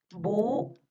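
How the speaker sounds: "Búho" split as bú, pause, o; syllable-split dictation. Shown as a demonstration. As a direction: separate the two vowels of "Búho" with a gap. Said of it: "les voy a ir dictando". (dictado separando "Búho" en sílabas)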